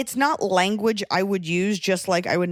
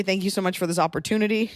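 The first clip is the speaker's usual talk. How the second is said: job interview; faster than usual. Retold or imitated. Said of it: "I'd probably say".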